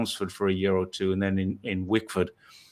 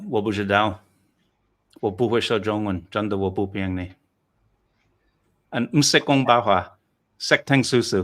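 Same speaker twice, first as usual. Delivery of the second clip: Chinese accent. Shown as a demonstration. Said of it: "what is your Chinese accent like?".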